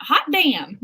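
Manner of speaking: Southern accent coming out; playful Southern exclamation. Shown as a demonstration. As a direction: show off a Southern twang. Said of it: "That makes my accent come out".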